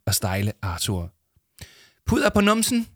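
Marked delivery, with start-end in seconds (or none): 2.1-2.9 mock-solemn, much higher and louder. Yama asking Arthur while powdering him, mock-solemn. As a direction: ask with exaggerated ceremony as an inside joke. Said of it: "spurgte Yama højtideligt".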